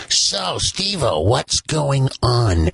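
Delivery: slow, drawn-out DJ voice; radio host voice. Retold or imitated. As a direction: play the old-time radio host. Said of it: "So you would be going".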